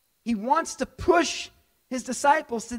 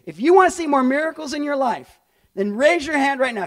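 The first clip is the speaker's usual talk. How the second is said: raised voice, pushing the congregation to act; louder appeal; 6 dB louder than usual. Real, not acted. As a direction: call them to raise hands, louder. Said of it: "actually raise your hand right now".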